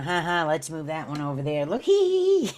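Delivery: hammed-up snickering of distant onlookers; mock laughter. Aliens laughing at humans like a joke, mock laughter. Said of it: "they're all up there laughing".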